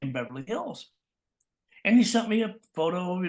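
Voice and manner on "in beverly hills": high, breezy mentor impression; veteran voice actor. Voice actor inviting a newcomer, imitated breezy welcome. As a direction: imitate a jolly cartoon actor inviting you along. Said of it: "He says".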